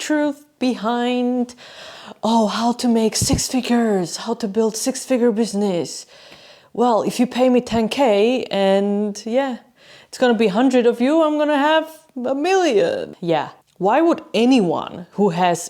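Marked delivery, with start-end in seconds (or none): 2.2-13.5 mocking sales pitch. Mocking a course seller's pitch.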